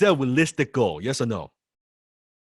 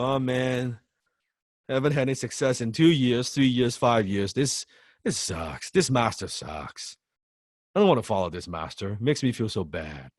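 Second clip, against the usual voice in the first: depressed genie. Pretend. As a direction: drag it out like a let-down genie. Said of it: "It's a depressed genie".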